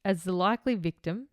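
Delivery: measured reading of a case file; true-crime narration. A narrator's reading. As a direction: read the account out formally, in phrases. Reads the case script.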